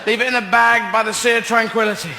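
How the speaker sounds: mock distressed astronaut. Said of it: "Neil doing close-up work".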